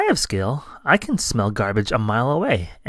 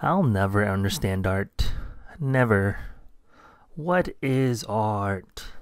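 despairing; 3 semitones lower, slower than usual. Acted. Mouse despairs after mess.

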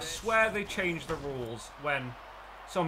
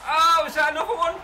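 excited rise; 11 semitones higher, 10 dB louder than usual. Real, not acted. Watching a possible home run.

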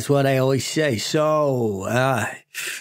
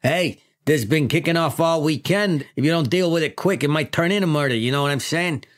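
lightly voiced New York chief; a hint of Brooklyn cop; New York accent. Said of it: "my classic New York accent".

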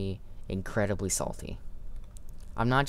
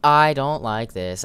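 I don't like this, louder and higher, alarmed; loud fearful cry; 4 semitones higher, 9 dB louder than usual. Real, not acted. Player spooked by the monster, loud alarmed cry. Frightened repeat of phrase.

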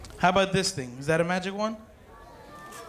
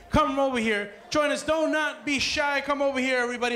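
calling out; 5 semitones higher than usual. Real, not acted. Calling kids to the dance floor.

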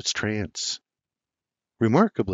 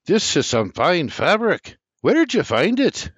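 raised, admiring voice of the tailor uncle; lightly voiced Irish uncle, higher and louder; uncle admiring cloth; 8 semitones higher, 4 dB louder than usual. A narrator's reading. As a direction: marvel at the fabric, voice lifted.

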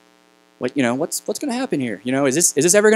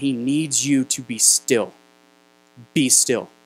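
put-on solemn old lady. Elderly lady's urgent message.

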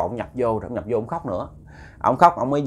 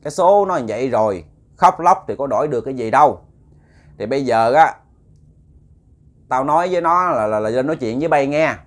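possessed spirit scolding; 2 semitones higher, 4 dB louder than usual. Retold or imitated. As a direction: scold the crying family as the ghost grandmother, raised and sharp. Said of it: "Cái bà Bảy nói". (hồn bà Bảy nhập xác, la mắng lớn tiếng)

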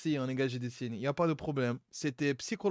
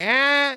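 porte qui grince; 8 semitones higher, 8 dB louder than usual. Retold or imitated. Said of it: "Une porte qui grince".

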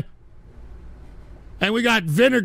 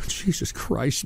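tag; 7 semitones lower, 6 dB quieter, slower than usual. Real, not acted. Exasperated pause after outburst.

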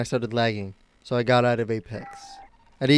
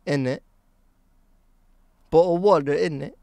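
mock London British accent, a bit higher; Tris British accent; 4 semitones higher, 3 dB louder than usual. Streamer imitating his British friend for chat, mock British accent. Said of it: "Do I sound like Tris?".

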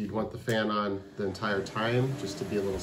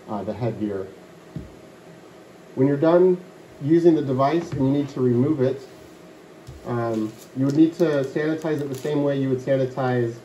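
inside an enclosed head box; boxy muffled hood speech; through a plastic hood; 2 semitones higher, 4 dB louder than usual. Real, not acted. Seen 2: Clear tote with blue fabric collar encloses his whole head throughout.

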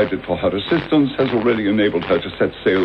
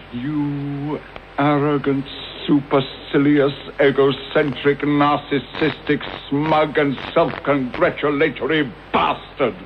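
contemptuous insult list; 5 semitones higher than usual. Retold or imitated. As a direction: let years of resentment drip from every word. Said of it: "would have said".

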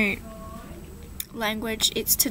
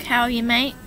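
Australian greeting. Shown as a demonstration. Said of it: "it's kinda just like".

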